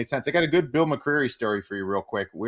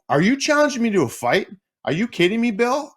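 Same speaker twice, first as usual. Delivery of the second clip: much higher, louder, stunned rising question; can't believe the ref is serious; incredulous disbelief; 12 semitones higher, 4 dB louder than usual. Retold or imitated. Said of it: "And I go".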